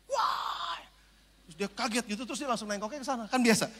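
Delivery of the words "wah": sudden yelled Wah at the driver; shout. Retold or imitated. Preacher yelling at an angkot driver, a sudden shout. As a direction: yell it out to startle him. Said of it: "saya teriakin".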